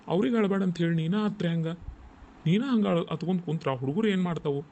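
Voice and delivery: exasperated but caring rebuke; chiding. Acted. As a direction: chide her for crying along. Chides wife for crying too.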